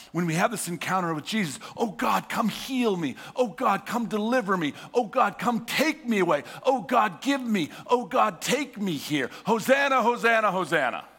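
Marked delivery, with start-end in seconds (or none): 1.8-11.0 pleading cry. Retold or imitated. Crowd begging for healing.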